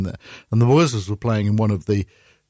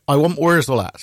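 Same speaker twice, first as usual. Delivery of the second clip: put-on lightly done West Country accent; a hint of rustic folk-band accent; 3 semitones higher than usual. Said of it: "that's how that band speaks".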